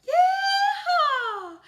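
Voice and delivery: high, loud whooping yeehaw with a laugh; big joyful cowboy whoop. Shown as a demonstration. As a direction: holler it like a cowboy calling the cattle in. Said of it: "in your high voice".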